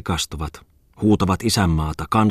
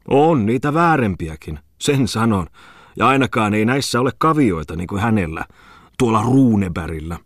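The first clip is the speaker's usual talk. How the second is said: indignant character, higher and louder; defensive Tommola; 5 semitones higher, 5 dB louder than usual. A narrator's reading. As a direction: defend yourself with raised voice. (närkästyneesti puolustautuen)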